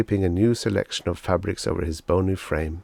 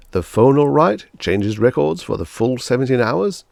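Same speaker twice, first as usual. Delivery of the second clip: louder, beaming salesman flattery; gushing salesman; 5 semitones higher, 7 dB louder than usual. Acted. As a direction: lay the praise on thick. Salesman Pathis asks.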